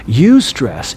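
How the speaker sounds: "Eustress" said as YOU-stress; "Eustress" with a clear "you" at the start; pronunciation demo. Shown as a demonstration. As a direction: repeat "Eustress" for learners, opening like "you". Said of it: "is pronounced eustress".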